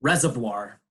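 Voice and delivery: Reservoir ending in a French-like "vwar"; French-style pronunciation. Shown as a demonstration. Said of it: "This word is pronounced like French".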